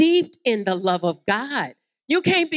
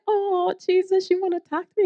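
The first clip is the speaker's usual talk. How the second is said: delighted; 8 semitones higher than usual. Acted. Woman delighted that Jesus wants to talk. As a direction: gush it with joy.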